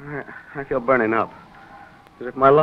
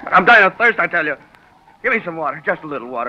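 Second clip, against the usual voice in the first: desperate plea; 3 semitones higher, 3 dB louder than usual. Acted. Feverish son begs for water.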